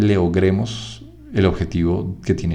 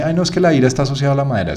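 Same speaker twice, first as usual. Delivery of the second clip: quick, higher whiny student parroting the textbook; mock student; 5 semitones higher, much faster than usual. Teacher mimicking a student's rote answer, fast and high. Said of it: "Es que dice".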